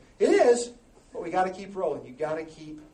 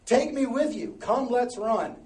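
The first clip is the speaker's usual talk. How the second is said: scripture reading; 4 dB louder, slower than usual. Acted. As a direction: read the verse with rising passion. Reads scripture verse.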